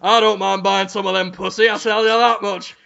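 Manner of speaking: badly faked rock star customer voice; a rock singer. Man buying cats from a seller, half-managed impression. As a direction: make a rough attempt at a celebrity impression. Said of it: "played by a rock singer".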